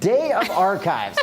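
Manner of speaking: slow deadpan echo. Real, not acted. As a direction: repeat it unimpressed, slowly. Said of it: "that landed with a thud".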